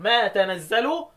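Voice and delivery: تنزل as "tanazzalu"; fatha on تنزل. Shown as a demonstration. Teacher lists the first of three readings, تنزل as tanazzalu. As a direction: open "ta" starting تنزل. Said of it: "يبقى أنا عندي قراءة".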